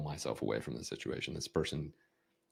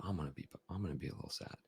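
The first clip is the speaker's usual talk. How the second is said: softer, quick touch of sadness; a little sad; 7 dB quieter, much faster than usual. Shown as a demonstration. Coach matching a sad kid's emotion, mildly sad. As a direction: drop the volume to match their sadness. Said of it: "I'm matching the emotion of sadness".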